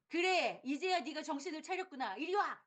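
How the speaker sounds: satisfied stern mother. Retold or imitated. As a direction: call the child over. 만족한 엄마. (만족한 엄마처럼 높게)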